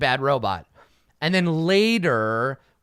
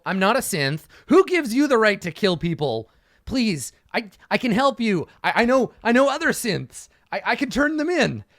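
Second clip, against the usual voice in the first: higher, rising plea, bargaining for his life; desperate pleading; 5 semitones higher than usual. Retold or imitated. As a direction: beg and bargain, a bit faster each line. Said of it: "The conversation is gonna go".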